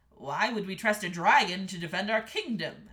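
loud, lightly voiced king; doubting king. A narrator's reading. King questioning the dragon's offer, lightly doubting. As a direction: challenge it firmly, a touch regal. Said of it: "asked the king".

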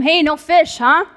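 acted call across the water; shouting out. Random dude on shore calling to the fishing boat, shouting out. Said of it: "some random dude on the shore shouts out to them".

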